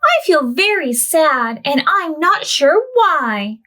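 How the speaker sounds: a touch of a sad wail, lightly voiced; mild wail. Orangutan telling Bernard its sorrow, mild wail. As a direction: sad orangutan voice, gently hammed-up. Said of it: "wailed the orangutan".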